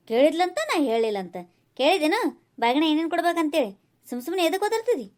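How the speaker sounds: mildly cross, pushing back; a touch of indignant scolding; irritated scolding. Acted. Mother-in-law challenges daughter-in-law over complaints, mildly cross.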